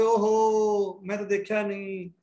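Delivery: slow, drawn-out mock regret; imitating students' excuse. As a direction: lightly mimic a student who missed it. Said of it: "बाद च कहोगे". (छात्रों के पछतावे की हल्की नकल, खींचकर)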